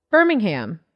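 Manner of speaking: Tig's slow dry delivery, lightly done; lightly voiced Tig recalling a date; imitating Tig. Comic retelling meeting Tig, lightly imitating her. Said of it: "You sound like Tig when you do the".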